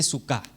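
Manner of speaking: suká with the last syllable stressed; stress on final A. Shown as a demonstration. Teaching congregants how suká is said, final-A stress. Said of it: "Con acento en la A al final".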